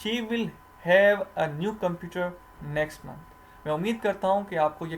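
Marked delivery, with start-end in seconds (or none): 0.0-3.3 slow, careful read of "She will have"; corrected version. Shown as a demonstration. Teacher giving students the corrected sentence, slowly. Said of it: "तो इसका क्या होगा?".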